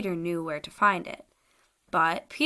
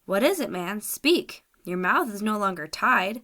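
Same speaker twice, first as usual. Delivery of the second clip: sharp command; 3 dB louder than usual. Acted. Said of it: "commanded him sharply".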